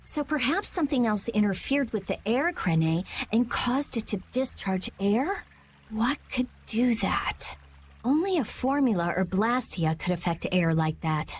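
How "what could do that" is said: hushed, breathy half-whisper; muttering to herself. Acted. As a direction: puzzle it out under her breath. Thinking aloud to herself.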